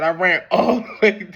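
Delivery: slow, laughing emphasis; proud of his run; laughing father. Retold or imitated. Father telling how he ran from the prison gate.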